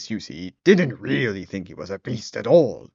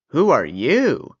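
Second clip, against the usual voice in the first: put-on old man voice; 4 semitones higher, 5 dB louder, slower than usual. Old man asks surprised.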